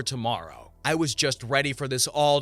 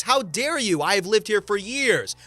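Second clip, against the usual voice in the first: higher, louder indignant protest; indignant outrage; 6 semitones higher, 4 dB louder than usual. Acted. Entitled mother lying to the homeowner with loud, higher outrage. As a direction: play the offended liar. Acted quarrel on the porch.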